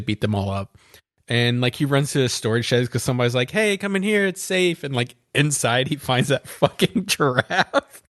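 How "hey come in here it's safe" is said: higher-pitched mock luring voice; imitated beckoning. Host voices somebody luring him to the shed, imitated beckoning. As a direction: call him over in a raised, put-on voice.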